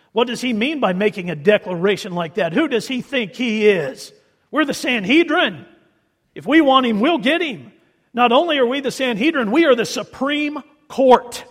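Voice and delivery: mocking the proud court's outrage; indignant Sanhedrin. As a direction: puff up like offended judges. Preacher voices indignant Sanhedrin.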